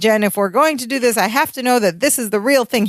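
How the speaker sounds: lightly flustered insistence; understated acted panic; mild retold panic. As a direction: plead it, a bit worked up. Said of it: "He's panicking".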